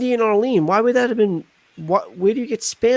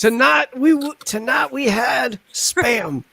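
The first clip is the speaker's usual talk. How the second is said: Morgan Freeman impression; 6 semitones higher, slower than usual. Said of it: "That's your Morgan Freeman voice".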